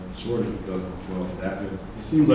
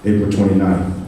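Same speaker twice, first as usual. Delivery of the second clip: poem recitation; 3 semitones lower, 10 dB louder than usual. Acted. Opens second poem.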